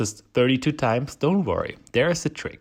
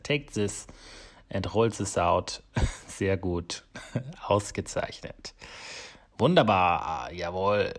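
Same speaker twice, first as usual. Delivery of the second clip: put-on German accent; 2 semitones lower than usual. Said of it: "Now I'm speaking with the German accent".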